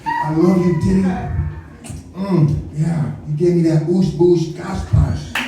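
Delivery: hammed-up interview impression; slow, savoring mock confession; Orlando Brown. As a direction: draw out the slurpy nonsense sounds. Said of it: "This nigga in the interview talking".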